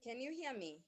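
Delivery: barely audible, far from the mic; weak, distant voice on a bad line; faint voice. Real, not acted. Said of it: "she sounds very, very faint".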